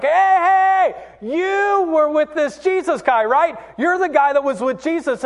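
high, loud call-out voice; accusing little girl. Retold or imitated. Little girl confronting Peter in the courtyard, high and accusing. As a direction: pitch it high, like a child confronting someone. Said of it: "this little girl that comes up to Peter".

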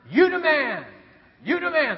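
high-pitched imitated fan holler; mock shouting. Friend cheers preacher on the golf course, mock shouting. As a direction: cheer like an over-keen golf buddy. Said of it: "But he'll start shouting".

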